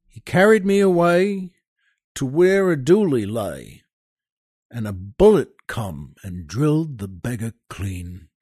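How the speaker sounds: dramatic ballad recital with soldier's swagger; poem recitation. Acted. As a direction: recite it like an old barrack-room ballad. Host recites Kipling poem.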